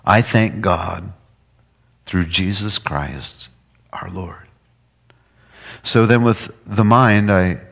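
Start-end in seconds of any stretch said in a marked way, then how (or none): 0.0-4.4 slow reading of scripture. Acted. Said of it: "verse twenty-five".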